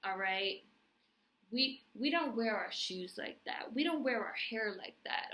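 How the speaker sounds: lightly mocking respectability lecture; acted scolding. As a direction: scold them in repeated, rising-then-falling admonishments. Voicing a slave preaching respectability.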